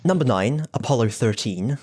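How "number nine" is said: rising sing-song number call; bingo caller. Shown as a demonstration. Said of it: "I'm, like, doing bingo calling".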